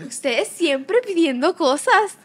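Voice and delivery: imitating mom. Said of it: "¿Tú puedes imitar a mami?".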